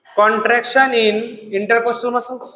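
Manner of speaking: very slow, spaced words; slow dictation. Shown as a demonstration. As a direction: drag it out for them to repeat. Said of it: "बोलो". (बहुत धीरे बोलना)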